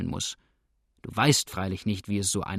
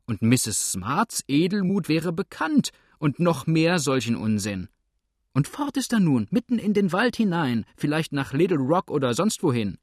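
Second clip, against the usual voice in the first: agitated rant; 5 semitones higher than usual. Acted. Husband complains to wife about the farmer, agitated. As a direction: pitch climbing high in exasperation.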